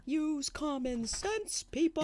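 high, slow exasperated plea. Real, not acted. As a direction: drag it out in disbelief.

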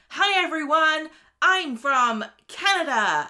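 loud, high mock Canadian greeting; big Canadian accent, drawn out at the end. A singer turns up to greet everyone, exaggerated Canadian accent. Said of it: "Miley turns up going".

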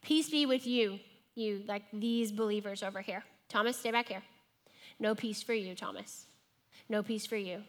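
PEACE BE WITH YOU aimed at some, pushing Thomas back; single him out coldly; mock cold shutout of the doubter; pointedly dismissive. Shown as a demonstration. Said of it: "he says them kind of like".

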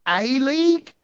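slow, stretched words like a busted AI robot; mock robotic pacing. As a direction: imitate his odd halting promo delivery. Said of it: "the weird pacing".

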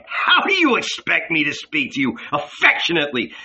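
tearful, choked protest; sobbing reproach to Jesus; crying. Acted. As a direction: fight through the tears. Judas breaking down in grief.

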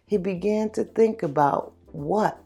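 somber story narration. A narrator's reading.

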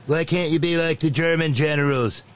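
high mock voice of a petulant boss; Nitwit Nero. Boss needling his chief of staff, high mock voice. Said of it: "Nitwit Nero looked at him and said".

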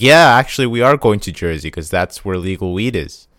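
mock cheerful yell opening the quote; mock exclaim. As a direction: ham up the New Yorker's sudden change of heart. Mocking New Yorkers' change of heart.

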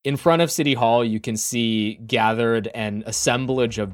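measured, dramatic scene setting; storytelling game master voice; game master narration. Acted. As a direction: narrate the scene, lingering on key details.

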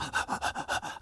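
mock panting gasp; hammed-up breathless gasp; imitated winded gasp. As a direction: gasp as if out of breath halfway up a hill. Imitating hikers who blast up.

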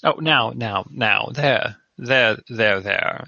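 stiff there there; awkward comforting. Acted. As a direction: awkwardly soothe him. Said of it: "awkwardly pat him".

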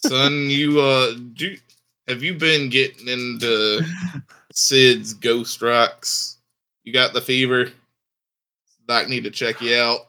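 put-on Southern cowboy accent, halting delivery; Sam Elliott Southern. Player asks son about ghost rocks, Southern accent. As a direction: question him in a Western Southern accent. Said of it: "I've gotta do the Sam Elliott Southern".

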